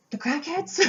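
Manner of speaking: a high laughing guess; laughing blurt. Real, not acted. Caller mentions someone has the cat, she blurts out a high laughing guess. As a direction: laugh as the silly guess slips out.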